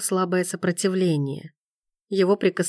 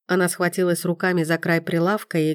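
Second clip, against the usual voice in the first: usual speaking voice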